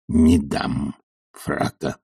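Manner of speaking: low, slow, flat-out refusal; stubborn old servant's low slow no; decisive refusal. Acted. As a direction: plant your feet and refuse. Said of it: "решительно сказал Захар".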